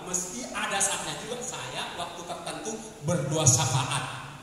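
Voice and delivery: ordinary delivery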